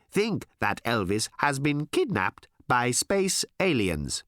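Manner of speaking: slow odd alien voice, halting; hesitant alien. Acted. Alien telling Tricia about a singer, slow and halting. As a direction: ease it out hesitantly. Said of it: "said one of her visitors hesitantly".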